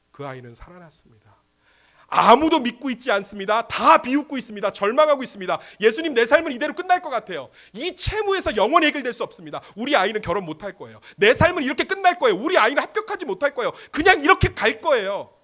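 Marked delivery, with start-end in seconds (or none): 2.1-5.6 loud, high, insistent declarations; forceful pulpit cry; impassioned preaching. Acted. 5.8-15.3 high, loud, hurried pleading; acted cry of hopelessness; desperate lament. Acts out despairing parents crying to Jesus.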